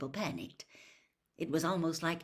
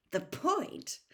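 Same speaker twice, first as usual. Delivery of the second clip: hollow; 10 semitones higher than usual. A narrator's reading. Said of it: "with a hollow laugh".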